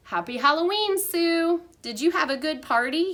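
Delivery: cheerful greeting. A narrator's reading. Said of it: "he asked".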